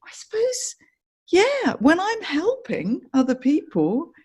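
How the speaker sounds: dawning realisation, said softly; softly realising, high and hushed; quiet realisation. Retold or imitated.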